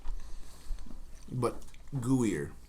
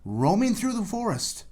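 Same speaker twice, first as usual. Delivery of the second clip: slow, dramatic storyteller setup; suspenseful intro with long pauses; scene-setting narration; 4 semitones higher, 3 dB louder, slower than usual. Acted. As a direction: set a Halloween scene with drawn-out phrases. Sets a Halloween scene.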